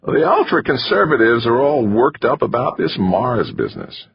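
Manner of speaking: wiry manager voice. A narrator's reading. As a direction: lay it out to him like a lecture. Narrator voicing McChesney.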